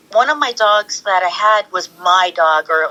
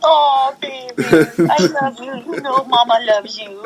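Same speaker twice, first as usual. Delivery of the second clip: put-on baby talk; 4 semitones higher than usual. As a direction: coo like to a baby. Talking to her dogs.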